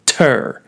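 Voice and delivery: "Ter" struck crisply so you can feel it; crisp stressed syllable. Shown as a demonstration. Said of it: "There's a crispness to that sound".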